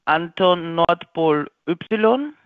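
slow, deliberate spelling alphabet. Real, not acted. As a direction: spell it out clearly for dictation. (langsam buchstabierend)

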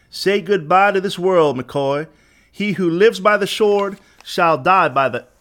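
slow, high-pitched gloating threat; drawn-out executioner's taunt; menacing send-off. A narrator's reading. Gunman delivers execution speech.

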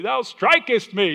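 very high, slow King James voice; mock old English. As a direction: ham up the archaic "Thou strikest me". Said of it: "the way the old English could say it".

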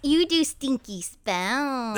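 slow giggling tease; laughing through the words. Real, not acted. Teasing friend, giggling.

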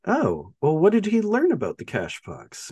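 put-on curiosity in a retold quote; mock keen interest. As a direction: play the interested questioner, lightly hammed up. Acted quote, probing for information.

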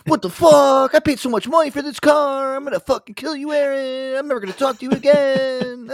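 high, loud exaggerated rage; mock furious rant. Cousin screaming at Aaron over the car, high and loud. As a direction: blow up like a car-proud hothead. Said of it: "I could see him get so".

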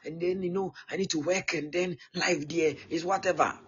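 a hint of a fretting young man weighing money; worried young son. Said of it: "I'm to think like a normal human being".

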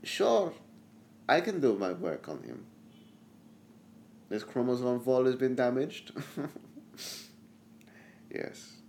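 mad doctor voice. Acted.

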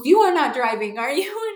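put-on light French accent. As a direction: tease her like the French doctor. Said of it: "he's a French man".

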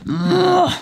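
high short "ugh"; grunt of disgust. Acted. Boz throws his newspaper out, disgusted grunt.

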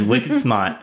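put-on Boston accent, R dropped in "smart"; Mark Wahlberg. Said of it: "who I base all my Boston or Massachusetts accents".

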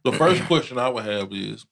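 talking while chewing candy; words around a mouthful of Skittles; mouth full. Real, not acted. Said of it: "excuse me, chewing on my Skittles".

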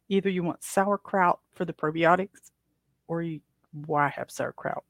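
talking through hiccups; hiccuping between words. Real, not acted. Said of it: "I've got the hiccups again".

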